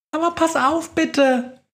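squeaky mouse voice, high and frightened; tiny mouse crying out in alarm; high panicky squeak. Acted. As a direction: squeal it like a scared little mouse. Mouse pleads during storm.

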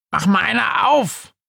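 high ghostly call to the door; Günther calling out. A narrator's reading. Günther rufend zur Tür, hohe Geisterstimme. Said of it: "ruft er".

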